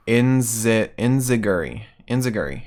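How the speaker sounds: "Inziguri" said as IN-zih-gur-ee; demonstrated pronunciation. Shown as a demonstration. Co-host passing on a posted pronunciation, "Inziguri" as in-zih-gur-ee. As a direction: sound out "Inziguri" with a Z and no YOO glide.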